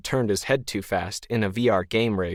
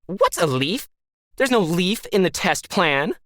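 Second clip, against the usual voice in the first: alien voice; 9 semitones higher than usual. A narrator's reading. Disembodied voice replies.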